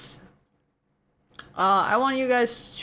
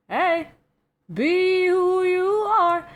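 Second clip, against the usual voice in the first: high cheerful voice; 10 semitones higher, 4 dB louder, slower than usual. Pretend. Cheer for chat message.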